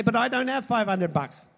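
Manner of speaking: high-pitched plea of a fined man; mock protest. Acting out the fined offender's protest.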